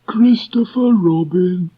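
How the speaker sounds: very high, slow and hesitant donkey voice; gloomy donkey stammering through a speech; Eeyore voice. Acted. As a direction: Eeyore stumbling over a speech to Christopher Robin.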